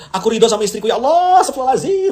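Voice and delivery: high, laughing mock prayer of a husband; mock husband's prayer. Preacher mimics a husband praying about his wife, high and mock-pious. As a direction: pray it high, half laughing. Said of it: "kalau ini terbalik".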